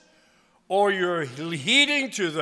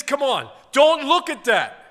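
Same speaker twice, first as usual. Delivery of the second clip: voice of grace; 8 semitones higher, 7 dB louder than usual. Retold or imitated. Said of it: "grace says".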